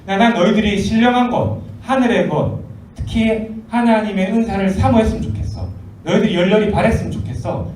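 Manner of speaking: lifted, pressing exhortation; earnest urging. Acted. Apostle pressing believers to desire spiritual gifts, earnestly urging. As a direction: urge them to want it eagerly. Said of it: "사모하라고 우리한테 강권하는".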